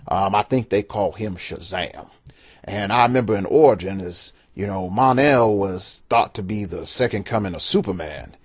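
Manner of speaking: lightly voiced old-timer reminiscing; a hint of a grumpy old man. Shown as a demonstration. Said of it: "I'm gonna bring out the old man voice here".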